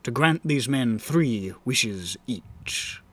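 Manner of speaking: measured dramatic story narration; grand rhythmic bard. Acted. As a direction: tell it like a bard at the fire. Bard narrates the fae tale.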